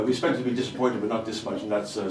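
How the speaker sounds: normal talking voice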